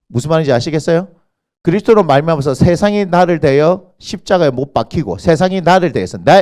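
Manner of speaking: ordinary talk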